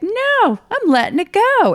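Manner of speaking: high, loud exhilarated cry; defiant thrill. Retold or imitated. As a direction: shout to yourself racing downhill. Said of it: "I was like".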